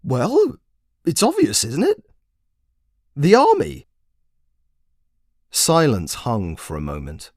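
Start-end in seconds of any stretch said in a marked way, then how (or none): 0.0-3.9 lecturing wizard. Acted. Wizard lecturing the commander on magic, high and grand. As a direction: proclaim it like a grand sage. Wizard announcing his plan.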